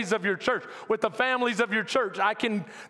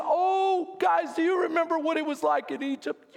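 mock bemoaning; 5 semitones higher than usual. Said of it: "bemoaning how great it was".

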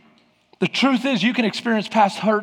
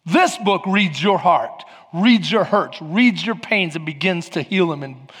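slowed, weighted delivery; slow and solemn; 4 semitones lower than usual. Acted. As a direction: let each phrase land slowly. Drops to slow reflective tone.

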